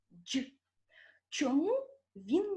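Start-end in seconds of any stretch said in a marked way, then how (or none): 0.1-0.4 Дж softened, one short palatal sound; soft consonant. Shown as a demonstration. Teacher repeating the soft Дж for pupils. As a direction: say Дж alone, softened as before і. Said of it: "Скажіть ще раз".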